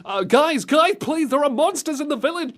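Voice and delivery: high, frantic villager cries; hammed-up desperate appeal; mock panicked pleading. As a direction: beg the heroes to come back. Acts villagers begging hunters for help.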